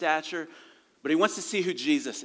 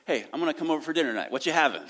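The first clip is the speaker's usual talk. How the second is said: brash self-invite; 3 semitones higher, 3 dB louder, much faster than usual. Retold or imitated. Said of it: "we don't typically go".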